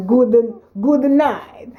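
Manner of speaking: slow, tipsy-sounding drawl on good night; Saturday night accent. Pretend. Wife signs off in her mock tipsy Saturday night accent. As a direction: stretch out good, good night like after a drink. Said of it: "This is my Saturday night accent".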